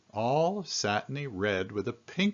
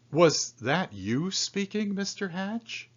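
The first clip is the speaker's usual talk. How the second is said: much higher astonished question; shocked question; 10 semitones higher than usual. Acted. Newsstand man amazed Mister Hatch talks, much higher. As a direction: sound stunned he spoke. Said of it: "Mister Smith was shocked".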